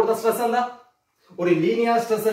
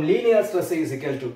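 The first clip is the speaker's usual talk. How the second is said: slow, lower, word by word; dictating while writing; 3 semitones lower, much slower than usual. Shown as a demonstration. Teacher writing the equation, slow dictation. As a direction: speak at the pace of the chalk.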